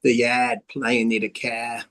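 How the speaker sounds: slow, yard and car without R; imitating dropped R. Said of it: "they don't pronounce the R".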